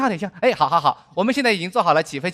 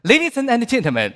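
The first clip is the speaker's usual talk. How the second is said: put-on airline English accent, a bit higher; mock bilingual flight attendant accent; 5 semitones higher than usual. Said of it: "这是什么口音啊？".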